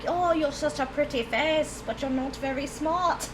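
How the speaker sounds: put-on a weak stab at a Southern accent; failed Southern accent. Streamer imitating friend's cussing grandmother, failed Southern accent. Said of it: "I can't do Southern. And that was the worst attempt".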